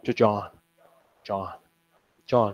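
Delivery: "John" said slowly as a lazy slurred contraction. Retold or imitated. Teacher imitating students' lazy slurred contraction, slow. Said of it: "老师，就这样，John".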